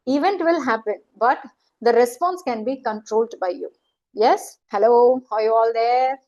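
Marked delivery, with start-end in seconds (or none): 4.1-6.2 drawn-out hello to the audience; calling out to check. Real, not acted. Trainer checks her audience is all there, calling out. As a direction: call out to see who is still there.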